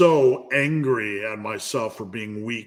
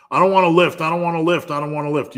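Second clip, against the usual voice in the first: higher and louder, a mocking whine fading down; whiny lazy voice; 5 semitones higher, 5 dB louder, much faster than usual. Mocking his lazy side, a whiny voice that sags. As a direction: whine it like a sulky kid, then let it sag. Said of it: "mocking his lazy side".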